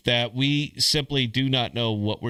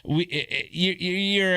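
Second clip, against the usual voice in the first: mock cheering; 4 semitones higher than usual. Host imitating people cheering a new dex, mock cheer. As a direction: imitate fans cheering, only half in earnest. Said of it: "of course they're cheering it".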